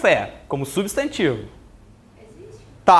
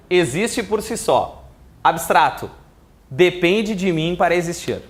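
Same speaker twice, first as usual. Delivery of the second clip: slow, spaced dictation for notes. Shown as a demonstration. Teacher dictating to the class, slow and even. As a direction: read it out slowly so they can write. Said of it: "Vamos anotar".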